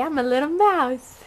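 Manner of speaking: put-on lilting little mouse line for a toddler to copy; sing-song prompt. Shown as a demonstration. Mom prompting her toddler to say it, sing-song. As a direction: say it sweetly so the child repeats.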